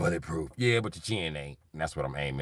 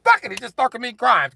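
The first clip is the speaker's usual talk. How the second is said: high mock rant; 7 dB louder than usual. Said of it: "I said".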